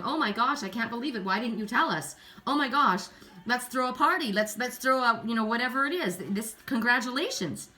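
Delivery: a crowd squealing over good news; excited gossip. Retold or imitated. Everybody going on excited news.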